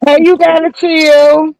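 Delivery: talking with food in mouth; chewing while talking. Real, not acted. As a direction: mouth full of macaroni. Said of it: "What you eating on?".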